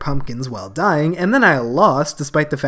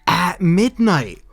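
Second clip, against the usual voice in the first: excited; 2 semitones higher than usual. Real, not acted. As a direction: gasp in excited realization. Excited discovery at midnight.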